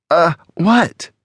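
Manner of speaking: high-pitched confused question; baffled. A narrator's reading. Alex hesitantly catches tossed gun, confused.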